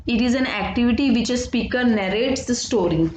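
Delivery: very slow definition read for note-taking; slow dictation. Acted. Teacher to students, slow dictation read. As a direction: read it out slowly so the class can write.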